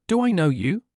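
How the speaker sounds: confused. A narrator's reading. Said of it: "Naruto, confused, asked".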